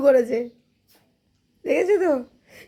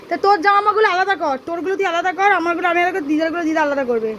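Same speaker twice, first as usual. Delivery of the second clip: scolding; 4 semitones higher than usual. Real, not acted. Mother scolds crying son over clothes.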